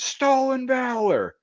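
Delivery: high slow mocking jeer; mocking accusation. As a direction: call him out like a schoolyard taunt. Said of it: "Like, he yelled it?".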